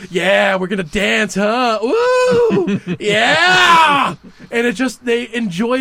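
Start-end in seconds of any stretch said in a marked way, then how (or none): 0.1-4.2 whooping gang thug. Retold or imitated. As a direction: whoop it like a street punk spoiling for a fight. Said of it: "it just like".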